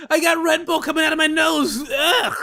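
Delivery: half-yelled, laughing disbelief; loud disbelief. Real, not acted. Streamer reacting to a clip, loud and laughing. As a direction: blurt it out like you can't believe it.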